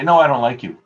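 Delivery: loud, teasing mock rejection; playfully blunt retold denial; teasing refusal. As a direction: push her buttons with a firm no. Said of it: "just to push her buttons".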